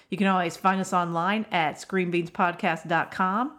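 usual speaking voice

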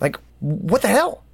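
fed-up monk's final jab; exasperated snap. Retold or imitated. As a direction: throw up your hands in outrage. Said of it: "and he snaps".

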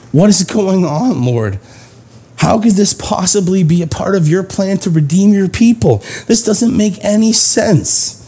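a touch of frantic desperation. Acted. Elijah complaining to God about his plan, frantic. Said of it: "Elijah is frantic still".

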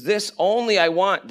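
ONLY lifted high and leaned on; emphatic. Acted. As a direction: read it emphatically, punching "only". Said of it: "it's very emphatic".

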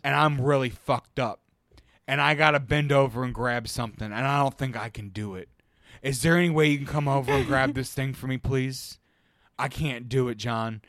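imitated earnest, grave plea; dead serious. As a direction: plead with total seriousness, as a retold quote. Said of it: "the most serious fucking tone".

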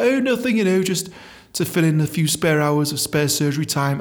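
a touch of high, breezy fake innocence. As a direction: play it innocent, lightly mocked. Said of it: "He's like".

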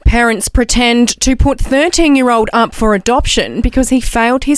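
measured TV news read; newsreader voice. Acted. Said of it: "the best newsreader voice".

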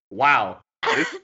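slow, deadpan sarcastic praise. Pretend. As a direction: say it like you don't mean it. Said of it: "what if he's actually doing this all sarcastically".

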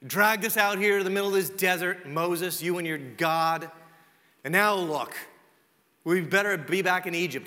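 mock grumbling at the leader; complaining. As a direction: grumble like fed-up travellers, hammed up a little. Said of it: "complaining about God".

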